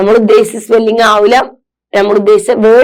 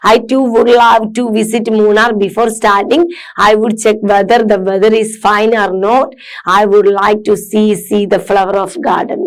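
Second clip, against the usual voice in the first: slow read-aloud; much slower than usual. Acted. Teacher reads diary passage.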